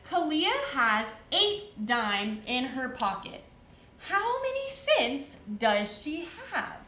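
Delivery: word problem read slowly and clearly; slow, careful reading of a word problem; slow read-aloud. Shown as a demonstration. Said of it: "This one says".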